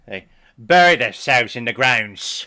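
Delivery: loud, put-on movie-villain voice; Batman movie quote. Reactor quoting a Batman film, loud put-on voice. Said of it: "Let's just quote Batman".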